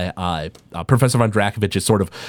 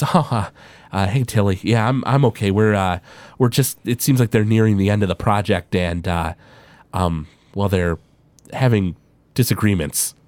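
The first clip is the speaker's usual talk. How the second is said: weary, hesitant reassurance; wearily gloss over trouble with pauses; mildly worn-out, reluctant explanation; tired, fed up; 3 semitones lower than usual. Acted. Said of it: "really tired".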